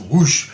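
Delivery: imitated whoosh. Imitates being swept away.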